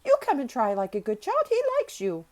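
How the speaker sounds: high, loud, urgent plea; agitated urging. A narrator's reading. Nurse begging a child to help, agitated urging. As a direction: plead loudly, pitched well up, like an alarmed nurse. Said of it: "she said in a great hurry".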